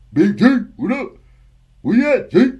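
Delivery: high, loud country holler; hollered greeting. Acted. Imitating his Southern friend calling for G, hammed-up holler. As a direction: call out to a buddy from far off.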